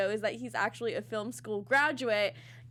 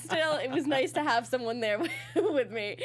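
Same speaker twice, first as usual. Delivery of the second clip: laughing; 3 semitones higher than usual. Real, not acted. Laughing through the story.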